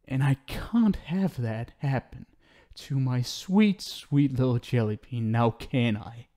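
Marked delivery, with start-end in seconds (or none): none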